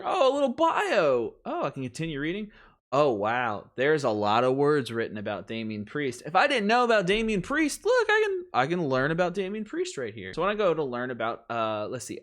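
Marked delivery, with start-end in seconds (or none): 0.0-10.3 sarcastic show of delighted discovery; mock amazement. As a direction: act wowed by the obvious. Exaggerated wonder at a working website.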